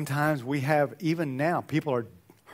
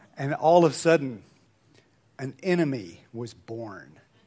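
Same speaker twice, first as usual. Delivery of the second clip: normal talking voice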